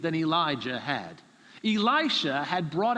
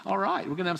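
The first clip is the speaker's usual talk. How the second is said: mock gleeful laugh; faster than usual. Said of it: "You're gonna go".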